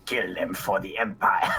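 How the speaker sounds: imperial officer war cry; cavalry officer. Acted. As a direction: urge the troops on. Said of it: "a villain that speaks like that".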